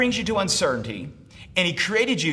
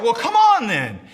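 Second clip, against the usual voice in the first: loud, raised call to charge; rallying shout; 7 semitones higher, 7 dB louder than usual. Shown as a demonstration. Preacher showing the congregation what to shout, rallying shout. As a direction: shout it to get them moving. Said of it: "Just shout".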